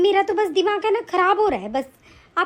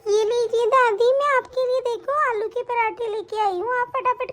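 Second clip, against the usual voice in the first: put-on little girl voice; 4 semitones higher than usual. Child brings food.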